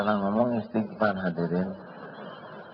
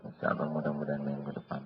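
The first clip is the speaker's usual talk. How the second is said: timid debtor; 5 semitones lower, 9 dB quieter, faster than usual. Acted.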